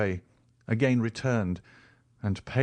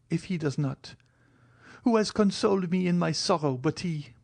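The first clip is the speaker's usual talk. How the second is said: put-on higher, pleading young woman; Valentine's voice; 10 semitones higher than usual. A narrator's reading. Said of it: "cried Valentine, sobbing".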